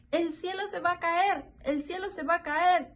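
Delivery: high, urgent storybook cry; alarmed hen. A narrator's reading. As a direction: raise the pitch as if sounding an alarm. Panicked hen's repeated cry in story. (gallina alarmada, voz aguda)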